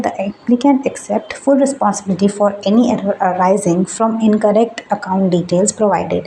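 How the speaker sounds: reading each word of the form slowly and deliberately; careful slow read of the declaration; slow formal reading. Acted. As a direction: spell out the legal text at a crawl. Reads last step aloud.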